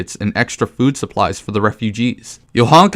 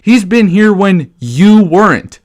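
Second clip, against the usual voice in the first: mock Johanka; 8 semitones higher, 4 dB louder, slower than usual. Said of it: "she drops this line on me".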